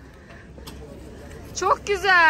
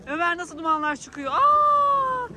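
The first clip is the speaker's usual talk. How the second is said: amazed shout; slower than usual. Real, not acted. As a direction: cry out in wonder. Smoke from kid's mouth. (şaşkınlıkla bağıran ses)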